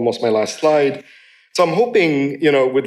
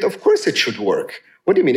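demanding customer; 2 semitones lower than usual. Retold or imitated. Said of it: "they seem to have the attitude".

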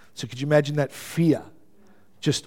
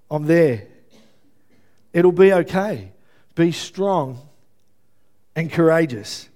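reassuring father God; 3 semitones higher, 4 dB louder than usual. Pretend. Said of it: "Yet he says".

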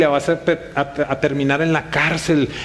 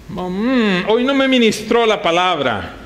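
dissatisfied churchgoer; 3 semitones higher than usual. Acted.

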